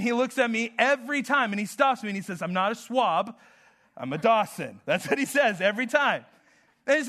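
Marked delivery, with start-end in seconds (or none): 2.4-4.8 "swab" said with a lisp for slob; lisping little boy. Retold or imitated. Pastor voicing his son Dawson objecting, lightly lisped. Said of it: "when I do my Dawson, I have a lisp".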